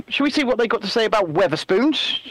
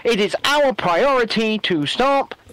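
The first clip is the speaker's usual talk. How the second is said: mock Rishi; slower than usual. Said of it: "my best Rishi impression".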